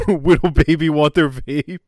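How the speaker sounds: laughing, sing-song mock baby voice; mocking baby talk. Goblin mentor taunting Morgana, mock baby talk while laughing. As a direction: taunt her like a toddler, lisping whittle. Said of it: "And he's like".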